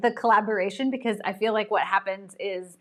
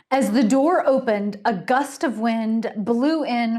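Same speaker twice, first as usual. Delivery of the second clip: suspenseful narration; 2 semitones higher, 3 dB louder than usual. A narrator's reading. Dramatic suspense story opening.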